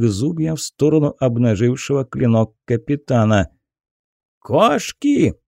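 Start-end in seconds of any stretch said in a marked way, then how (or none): 4.4-5.3 sharp high shout of accusation. Acted. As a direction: yell it out at the crowd. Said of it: "крикнул мужик". (громкий крик)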